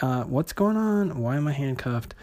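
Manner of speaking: lightly acted confused question. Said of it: "he is shocked to find himself in handcuffs".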